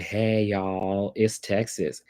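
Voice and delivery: mock thick Texas country accent; lightly put-on country twang from Texas. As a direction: stretch it out in an imitation Texas drawl. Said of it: "like, the country accent".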